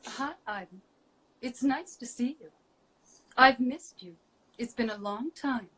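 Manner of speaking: an understated android character greeting. Pretend. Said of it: "So I'll do a little something here".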